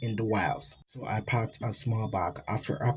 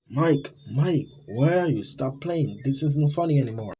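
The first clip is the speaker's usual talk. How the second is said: calling out; 4 semitones higher, 3 dB louder than usual. Acted. Calling out for missing friend.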